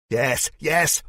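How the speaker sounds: high, loud giddy yes; overexcited glee. Acted. Spike jumping up and down, giddy high and loud. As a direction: bounce with delight.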